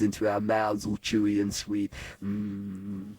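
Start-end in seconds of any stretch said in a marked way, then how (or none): 2.2-3.1 soft, low "mm"; hushed hum of remembered relish; savouring hum. Acted. Boy remembering secret raisins, savouring hum.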